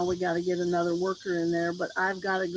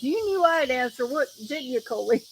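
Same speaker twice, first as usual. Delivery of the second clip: imitating boss; 3 semitones higher, 3 dB louder than usual. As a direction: lightly act out the boss's ribbing. Retold boss teasing on phone.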